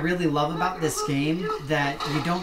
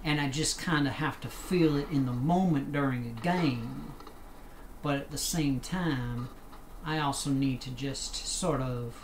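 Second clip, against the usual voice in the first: put-on Southern accent. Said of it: "as I get into my southern accent here".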